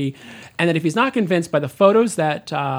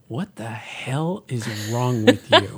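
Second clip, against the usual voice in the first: laughing; 4 semitones lower, much slower than usual. Retold or imitated. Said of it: "she always looks across from me and goes".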